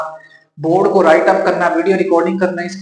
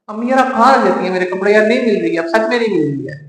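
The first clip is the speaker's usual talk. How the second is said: higher and louder exasperated whine at mom; frustrated complaint; 4 semitones higher, 3 dB louder than usual. Retold or imitated. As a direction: push the frustration up a notch. Son complains to mom again. (अम्मी से खीझकर ऊँची आवाज़ में शिकायत)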